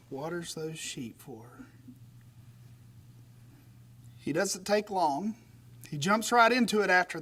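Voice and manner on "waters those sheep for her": much softer, lower, dreamy savouring; mock romantic. Shown as a demonstration. Preacher teasing the congregation about romance, soft and dreamy. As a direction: swoon over it gently, almost sighing. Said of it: "Isn't that romantic?".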